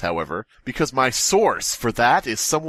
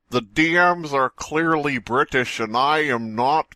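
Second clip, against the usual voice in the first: slow, high put-on voice, lightly American; a hint of a folksy American drawl; mock American denial; 4 semitones higher, slower than usual. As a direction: deny being British, hammed-up. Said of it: "he comes on and he says".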